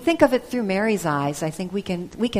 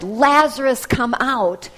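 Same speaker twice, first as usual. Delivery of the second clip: higher, louder call into the tomb; shouted call; 3 semitones higher, 6 dB louder than usual. Retold or imitated. Jesus calling into the tomb for Lazarus, shouting. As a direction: call him out of the grave. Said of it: "and shouted".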